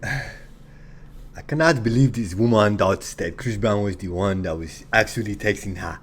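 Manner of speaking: playful put-on Nigerian accent; slow, teasing Nigerian accent. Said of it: "I'll be speaking in my Nigerian accent".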